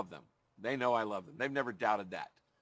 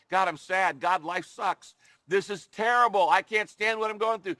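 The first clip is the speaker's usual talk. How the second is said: anguished outcry; 4 semitones higher, 5 dB louder than usual. Retold or imitated. Voicing a prayer of pain.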